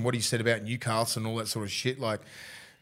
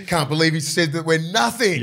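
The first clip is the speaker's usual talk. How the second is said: laughing; 3 semitones higher, 6 dB louder than usual. Real, not acted. Laughing over rival's comment.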